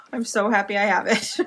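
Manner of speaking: giggling through the words; happy laugh in the voice; laughing happily. Real, not acted. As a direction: laugh as you say it. Same line said twice.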